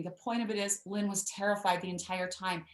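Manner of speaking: ordinary talk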